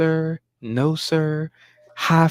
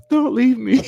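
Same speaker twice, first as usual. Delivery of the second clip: mock clingy plea; 8 semitones higher, 6 dB louder than usual. Mocking daughter's plea.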